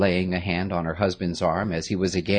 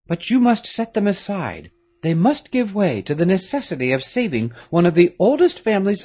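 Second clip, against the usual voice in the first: lightly voiced stern nobleman, higher and louder; a grave father giving orders, a touch of urgency; Marquis, grave father; 12 semitones higher, 6 dB louder than usual. A narrator's reading.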